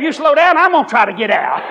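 high, mock alarmed plea; mock pleading. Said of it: "I felt like saying".

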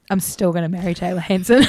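a light laugh through the words; laughing vow. Retold or imitated. The adult speaker telling the host her teen crush lives on, with a light laugh. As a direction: declare it half-joking, half-serious. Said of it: "thirty-two-year-old her was like".

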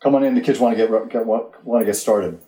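mild call across the yard, easing off; half-voiced calling out; retold yell. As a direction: call a child in, without real force. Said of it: "so I yelled to her".

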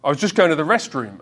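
put-on American-accented retelling. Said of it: "he said it in American accent".

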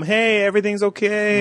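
mock calm reassurance. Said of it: "He's been the calm".

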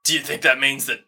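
halting, stammered false start; struggling for words. Acted. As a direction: stumble into the question, pausing mid-phrase. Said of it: "trying to form words, but he can't".

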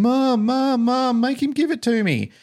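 put-on high, drawn-out whiny kid pleading; pestering child. Four-year-old hounding his mum for a toy, mock pestering. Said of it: "he was hounding his mum".

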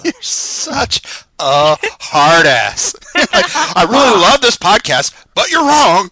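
loud laughing tease. Real, not acted. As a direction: laugh through the whole line. Teasing co-host, laughing loudly.

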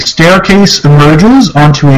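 slow, measured scene reading; story narration. Acted. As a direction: read the description like a narrator. Reads the room description.

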